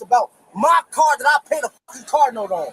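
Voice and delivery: venting at the officer about his rights; angry shout. Real, not acted. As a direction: shout out the grievance. Complaining to officer about search.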